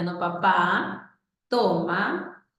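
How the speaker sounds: put-on very slow, drawn-out odd child intonation; oddly paced child speech; peculiar intonation. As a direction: stretch each word like the boy did. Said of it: "una entonación un poco peculiar".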